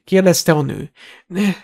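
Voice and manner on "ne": high, slow, reluctant reply; fed up with questioning. A narrator's reading. Borgin answering his masked interrogators, fed up. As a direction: draw out a higher-pitched, worn-down denial. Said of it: "már nagyon elege van a vallatásból".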